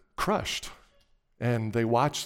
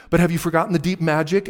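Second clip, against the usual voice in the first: lightly voiced witch, higher and louder; challenging witch; 6 semitones higher, 8 dB louder, faster than usual. A narrator's reading. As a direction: press the question as a challenge. Witch challenges Aslan in story.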